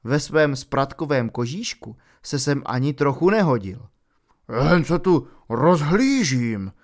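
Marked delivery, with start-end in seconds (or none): 4.7-6.7 slow, louder big-man voice, dodging; evasive Hagrid. A narrator's reading. Hagrid se vyhýbá otázce, pomalu a hlasitěji. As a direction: hide something while sounding casual. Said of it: "řekl vyhýbavým tónem".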